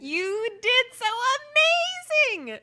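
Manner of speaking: high, loud cheering praise; excited cheer. Real, not acted. Cheering friend's success.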